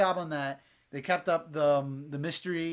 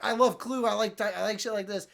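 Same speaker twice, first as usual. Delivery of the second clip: mock excited; 6 semitones higher, 3 dB louder than usual. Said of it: "And I was excited".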